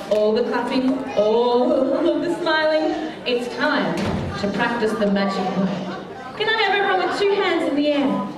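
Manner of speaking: put-on bright, sing-song show voice for kids; kids party magician. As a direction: lead the crowd like a children's entertainer. Magician addressing children's party.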